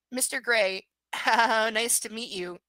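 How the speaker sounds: slow, nervous little laugh between words; flustered stutter. Acted. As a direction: trip over the greeting, giggling nervously. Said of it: "she stutters".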